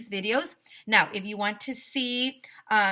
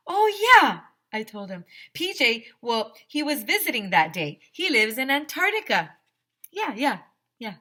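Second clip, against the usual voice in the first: put-on nervous kid; 3 semitones higher, 5 dB louder than usual. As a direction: make up the lie on the spot, fumbling. AJ keeps inventing the lie.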